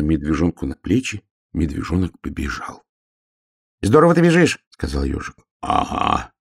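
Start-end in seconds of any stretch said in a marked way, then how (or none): 3.8-4.6 high, quick little hedgehog voice; a small eager hedgehog, asking. Acted. Hedgehog asks the bear cub while running, high and quick. 5.6-6.3 puffing out a breathless aga; the bear cub short of breath while running. Acted. Bear cub carrying the hedgehog, answers out of breath.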